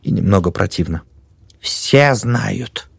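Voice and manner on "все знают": grim triumph. A narrator's reading. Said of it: "с мрачным торжеством заключила".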